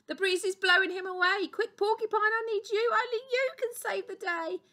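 high-pitched, loud storybook urgency; rally help in a hammed-up panic; urgent alarm. Doctor Duck needs Porcupine to save the day, urgent plea.

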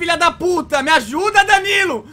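loud panicked call to a teammate; real frantic yell; desperate shout. Real, not acted. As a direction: yell for help, cursing. Dying, yelling for help.

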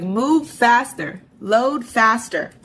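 slow, drawn-out mock impatience; impatient urging. In a rush, urging slow internet to load, impatient. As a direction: hurry the computer along, stretching each word. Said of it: "I'm over here like".

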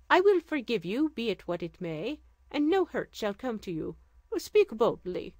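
regal sultan. Acted. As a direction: speak as a gracious sultan. Sultan reassures her.

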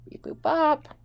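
playful robot beeps falling at the end; toy robot voice. Pretend. Players chanting robot beeps.

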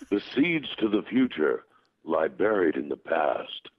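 measured, slowing delivery; solemn pronouncement. Acted. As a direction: intone it like a wise leader. Performs Optimus line, later explained plainly.

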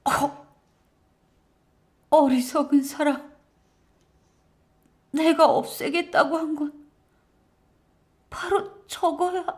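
high, halting, weakened woman's voice; dying wife. Acted. Dying wife corrects husband, pained high faltering voice.

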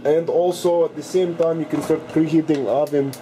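mock Russian accent, dropping articles like the/a; hammed-up Russian accent throughout the cooking video. Cooking show host jokes to viewers in a mock Russian accent. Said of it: "today I will be talking in Russian accent".

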